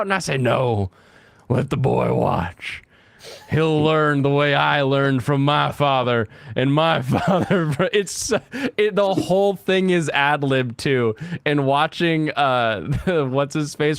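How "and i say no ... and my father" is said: Will Ferrell bit. Retold or imitated. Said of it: "Will Ferrell ... he's like".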